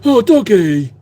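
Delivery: imitating the wife's slow cooing; a light echo of her delight at the dog; retelling the wife's cooing at a dog; mock cooing "oh doggy". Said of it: "how she said it".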